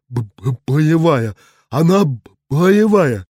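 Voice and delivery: shaken stutter on боевая; a dazed, shaking stammer; stammering in shock. A narrator's reading. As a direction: stammer it out, trembling. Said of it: "а он трясётся".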